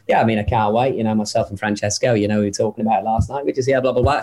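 lightly imitated English golfer; Tommy Fleetwood. Impressionist answering an interviewer as a golfer, lightly imitated. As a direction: rattle through a casual golfer impression. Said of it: "I'd be doing Tommy Fleetwood going".

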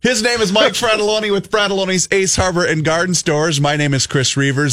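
upbeat announcer read, signing off; host announcing show name before break; radio outro. Acted. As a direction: sell the station like a DJ.

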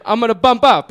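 high imitated Italian announcement; Italian man. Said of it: "almost the exact same thing happens again".

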